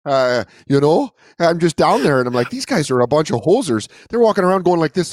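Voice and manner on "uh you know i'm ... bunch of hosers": lightly imitated Canadian storyteller; mock Canadian accent. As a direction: grumble as a put-on Canadian. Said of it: "I wonder if Canadians do us".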